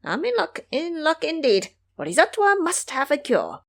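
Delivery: high, pleased aside; a hint of glee under the breath; secretly delighted. A narrator's reading. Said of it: "secretly delighted".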